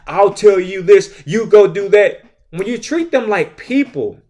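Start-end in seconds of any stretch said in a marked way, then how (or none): 0.1-2.2 slow, loud bossy orders; a mock authoritarian barking slow commands. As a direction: lay down the law like a bossy boss.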